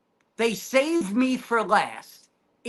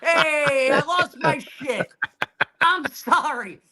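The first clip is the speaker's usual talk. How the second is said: laughing apology; 3 dB louder than usual. Retold or imitated. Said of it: "and I'm like".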